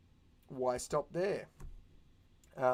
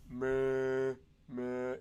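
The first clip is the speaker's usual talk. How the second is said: limp "meh, meh"; 3 dB louder than usual. Shown as a demonstration. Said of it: "you know, going".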